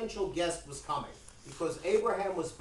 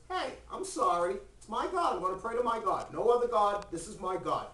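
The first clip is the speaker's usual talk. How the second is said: put-on old man refusing, pitched up; lightly acted stubborn protest, voice raised in pitch; defiant old man; 3 semitones higher than usual. Old man refusing Abraham's demand, defiant.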